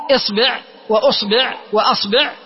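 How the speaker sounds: إصبع وأصبع وأصبع as isbi', usbi', asbi'; vary only the first vowel in إصبع وأصبع وأصبع. Shown as a demonstration. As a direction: demonstrate إصبع وأصبع وأصبع, all ending -bi'. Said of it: "التي بكسر الباء".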